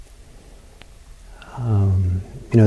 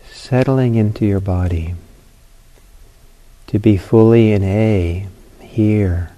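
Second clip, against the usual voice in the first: unhurried guidance with long pauses between phrases; guided meditation; slower than usual. Real, not acted. Teacher leading students into a sitting, guided meditation. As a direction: ease them into the sitting, phrase by phrase.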